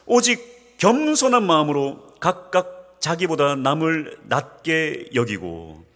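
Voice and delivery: slow, deliberate reading of the verse; solemn slow recitation; slow scripture reading. Real, not acted. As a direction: read it out word by word to the congregation. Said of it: "삼 절 후반절입니다".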